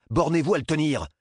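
high, tense command; urgent order. A narrator's reading. Doctor tells nurse just to hold the boy, urgently. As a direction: give a pressing instruction mid-crisis. Sharp order during the emergency.

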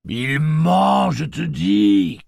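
high, loud cry of accusation; shouting. A narrator's reading. Gâcheur accusing someone of lying, shouted. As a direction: shout it out, drawn out and insistent. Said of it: "cria Gâcheur".

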